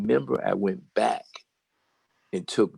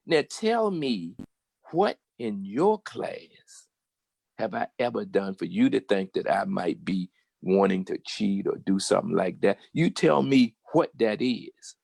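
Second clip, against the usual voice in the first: indignant demand. Retold or imitated. Student confronts teacher after class.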